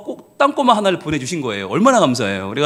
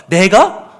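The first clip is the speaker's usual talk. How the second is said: stunned; 6 dB louder, much slower than usual. Retold or imitated. Teacher realises.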